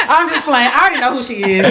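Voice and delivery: words bubbling through real laughter; laughing while talking. Real, not acted. Cohost backing off her joke to the guest, laughing. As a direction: giggle through the retraction.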